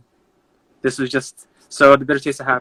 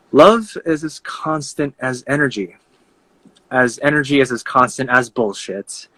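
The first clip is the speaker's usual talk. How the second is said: spoken-word free verse, each line launched firmly; poetry recitation; 3 semitones higher, 3 dB louder than usual. Acted. Poet arguing that love and energy intertwine, poetry recitation. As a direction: recite your argument in verse, pausing between lines.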